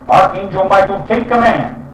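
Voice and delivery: loud high call to Archangel Michael. Shown as a demonstration. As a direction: call him as if from afar. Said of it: "you're saying it loud".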